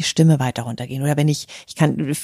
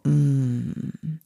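contented hum; 5 dB quieter than usual. Shown as a demonstration. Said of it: "dieses Mm".

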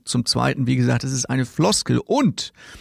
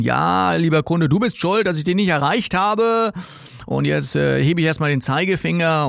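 higher, mock finger-wagging caller; hidden reproach spelled out; 3 semitones higher than usual. Salesman blames the customer for being unreachable, higher mock scolding. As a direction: lightly play a scolding salesman. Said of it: "das Wort Sie deutet darauf hin".

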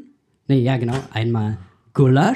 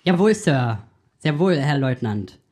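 lightly voiced eager subordinate; hammed-up yes-sir soldier; clipped nasal officer. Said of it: "machen wir kurz einen Bundeswehr-Podcast nach".

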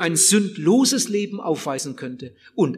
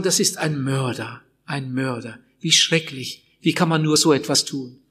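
mock outrage; 6 semitones lower than usual. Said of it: "Wir machen ja immer Unterschiede".

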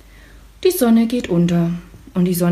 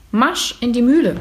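calling out; 4 semitones higher than usual. Acted. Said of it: "ruft sie".

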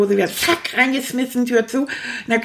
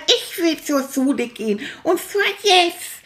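stubborn demand; 6 semitones higher than usual. Acted. The rat insists on school right now, a high stubborn whine. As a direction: dig in your heels like a toddler.

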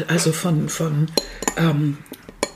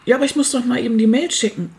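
imitating an indignant kid, raised pitch; 6 semitones higher than usual. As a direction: protest like an offended teenager. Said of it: "im Brustton der Entrüstung".

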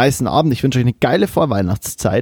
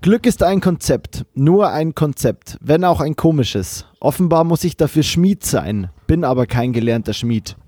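poem recital. Acted. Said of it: "mein Schlusszitat".

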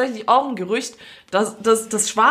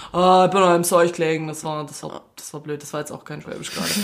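Schwäbisch gespielt; 4 semitones lower than usual. Retold or imitated. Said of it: "abranzen auf Schwäbisch".

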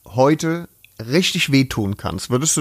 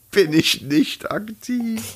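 mocking imitation; 8 semitones higher, much slower than usual. Mocking repeat of Bonita.

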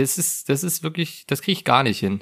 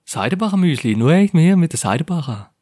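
parodying a radio muesli ad in Swabian; mock radio ad; 3 semitones higher than usual. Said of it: "das ist keine Werbung".

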